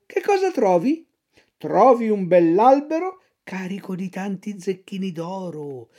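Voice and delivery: lightly voiced fox, spinning a tale; sly fox. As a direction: lure the puppet with a tall story. Fox tells the miracle field.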